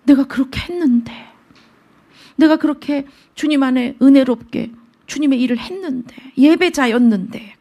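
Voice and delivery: mild plaintive 내가, 내가 with a falling end; aggrieved lament. Retold or imitated. The psalmist recalling his devotion, stressing 내가. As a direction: stress on 내가, 내가 leaned on hard, falling tune. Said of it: "이게 아니라".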